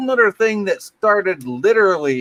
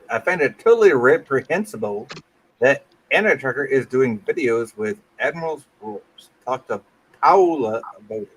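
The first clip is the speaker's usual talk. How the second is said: put-on Russian accent; 2 semitones lower than usual. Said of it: "Why did I do that in a Russian accent?".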